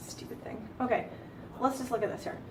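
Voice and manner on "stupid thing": annoyed mutter. Real, not acted. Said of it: "frustrated with the computer".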